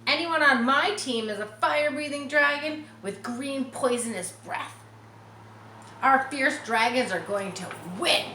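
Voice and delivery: high, proud boast; a lightly voiced bragging Harry. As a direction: brag about your dragons. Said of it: "he bragged".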